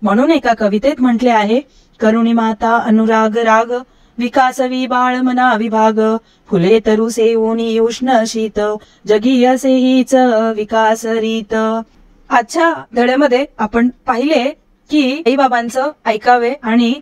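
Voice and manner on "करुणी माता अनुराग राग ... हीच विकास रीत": slow, lower recited verse; a gentle moral poem read out slowly; poem recitation. Acted. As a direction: savour each line of the poem slowly.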